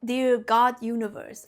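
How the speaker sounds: slow, drawn-out prayerful address; invocation. Retold or imitated. Recalling her spontaneous prayer to the universe, slow invocation. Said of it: "It was like an invocation".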